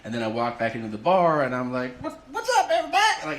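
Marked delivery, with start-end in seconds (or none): 2.0-3.0 high, laughing party shout into the room; drunk loud greeting. Retold or imitated. Drunk guy bursting back into the bar, high and laughing.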